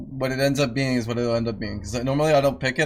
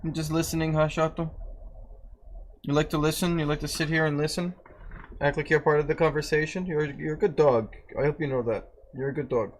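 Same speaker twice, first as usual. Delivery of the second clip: softer, tender talk to the dog; soft pet talk; 5 dB quieter than usual. Real, not acted. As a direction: murmur fondly to the dog.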